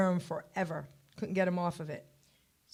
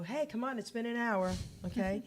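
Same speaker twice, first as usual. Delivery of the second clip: soft, slightly raised nudge; coaxing awake; 3 semitones higher, 7 dB quieter than usual. Retold or imitated. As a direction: rouse a sleeper without raising volume. Waking cousin a second time.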